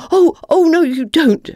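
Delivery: high, loud furious cry; angry. A narrator's reading. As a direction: stop the fox cold. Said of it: "she said angrily".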